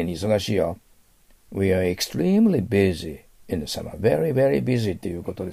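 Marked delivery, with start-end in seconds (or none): 1.9-2.7 extremely with a high, stretched "TREE"; 極端なアクセント. Shown as a demonstration. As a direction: exaggerate the second syllable of extremely. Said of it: "アクセントは私ちょっと極端に言いますから". (「extremely」の真ん中を極端に伸ばして強く)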